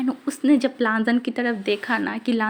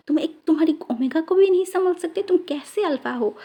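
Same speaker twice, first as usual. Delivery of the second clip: scolding. Acted. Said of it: "इतना ज़्यादा डांटे थे".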